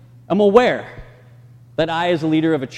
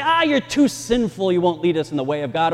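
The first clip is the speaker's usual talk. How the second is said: dismissive church; 3 semitones higher, 4 dB louder than usual. Retold or imitated. Church voicing dismissive excuses.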